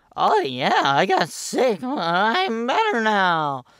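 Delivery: put-on very slow, high, childlike prepubescent voice. Retelling a childhood reply to mom, very prepubescent voice. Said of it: "in my very prepubescent voice".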